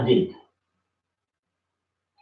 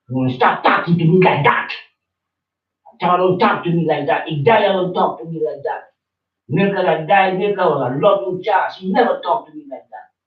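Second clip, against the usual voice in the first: angry scolding; 5 semitones higher, 4 dB louder than usual. Real, not acted. Real quarrel, scolding about disrespect.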